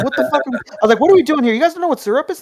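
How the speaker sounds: high, loud indignant outburst, retold; losing it. A kid telling staff off over missing syrup, retold outrage. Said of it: "I was, like, losing my mind".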